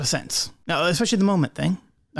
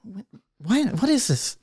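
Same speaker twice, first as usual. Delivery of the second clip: mock alarmed; 9 semitones higher than usual. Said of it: "And she's like".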